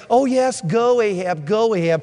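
lightly mocking, put-on encouragement. Prophet mocks the other prophets before Ahab, mildly mocking. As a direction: parrot the yes-men with a touch of mockery. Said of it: "he mocks the other".

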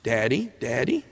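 put-on soft child's call, lilting upward; a hint of a little one calling; lightly voiced child. Father imitating his child calling him, soft and rising.

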